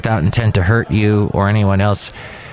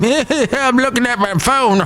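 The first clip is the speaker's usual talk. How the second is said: high, slow bratty voice; mock young punk; 11 semitones higher than usual. Young punk brushing off the old guy, high bratty voice. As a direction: sound like a bored kid glued to his phone. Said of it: "the young punk going".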